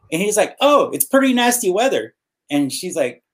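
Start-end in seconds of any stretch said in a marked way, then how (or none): 0.6-2.1 high, falsely innocent bus driver; innocent cover-up. Retold or imitated. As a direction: play it sweet and innocent.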